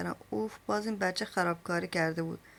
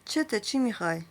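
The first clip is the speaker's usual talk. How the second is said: angry retort. Acted. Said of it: "با خشم گفتم".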